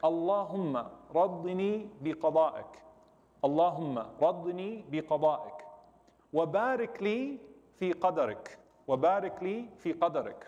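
measured Arabic recitation, phrase by phrase; slow recitation. Shown as a demonstration. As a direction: recite the supplication slowly and deliberately. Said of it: "I'll read it very slow".

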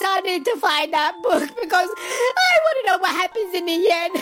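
half-sobbing, half-laughing wish to know the ending; mock tearful whine. Crying-laughing about lost book.

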